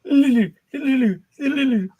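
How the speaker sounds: high sing-song call of a name. Real, not acted. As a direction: call the name out across the room. Calling out to someone.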